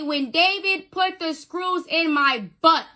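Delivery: clear as day. Retold or imitated. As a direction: spell out each word deliberately. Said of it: "He said clear as day".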